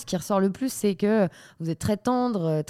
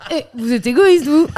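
fan recognizing you; 7 semitones higher, 10 dB louder than usual. Pretend. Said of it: "Les gens qui te reconnaissent".

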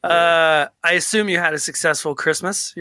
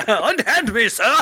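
slow, higher-pitched mock protest through laughter; mock broadcast voice; 6 semitones higher, slower than usual. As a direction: protest grandly, cracking up. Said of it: "you don't talk like that".

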